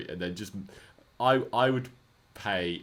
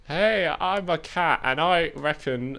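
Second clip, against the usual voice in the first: cat voice; 8 semitones higher, 6 dB louder than usual. Pretend. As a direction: speak as a pet cat. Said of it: "I'm a cat with a British accent".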